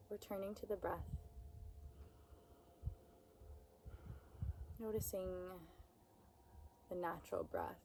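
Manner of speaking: unhurried, soothing meditation voice; guided meditation. Acted. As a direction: guide them gently, with long pauses between phrases.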